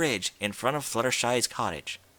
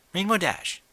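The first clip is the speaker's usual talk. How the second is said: flat; 8 semitones higher than usual. Acted. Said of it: "Rarity said in a flat voice".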